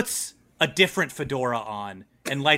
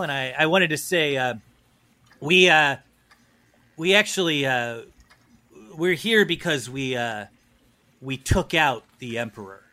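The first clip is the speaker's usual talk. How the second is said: hesitant operative. Acted. Snake Professional, hesitant confession.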